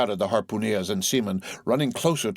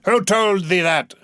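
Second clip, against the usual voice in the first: sharp cry; 10 semitones higher, 7 dB louder than usual. A narrator's reading. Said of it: "cried Ahab".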